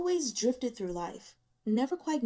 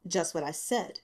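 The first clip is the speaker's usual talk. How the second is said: unmoved; 3 semitones lower than usual. Acted.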